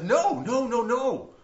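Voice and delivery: Jesus stopping the disciples, firm but a bit hammed; emphatic mock protest.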